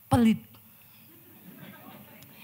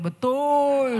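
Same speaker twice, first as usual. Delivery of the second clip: shouted agreement; 4 semitones higher, 5 dB louder than usual. Retold or imitated. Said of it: "ada ibu yang berteriak".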